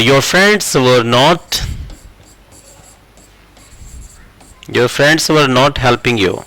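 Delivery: extremely slow, word by word; slow dictation. Shown as a demonstration. Teacher dictating the English sentence to students, very slow. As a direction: spell the sentence out slowly for the class. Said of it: "ऐसे बन जाएगा sentence".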